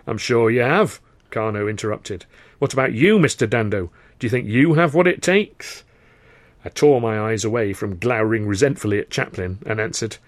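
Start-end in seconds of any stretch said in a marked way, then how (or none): 0.1-5.8 boisterous theatre boss. Acted. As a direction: roar it like a gleeful manager. Karno voiced.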